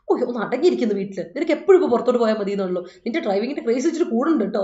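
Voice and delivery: half-hearted nagging, quickened; mock scolding. Retelling how the younger sister scolds her, mild mock scolding. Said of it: "എന്നെ ഇപ്പോൾ വഴക്കാം".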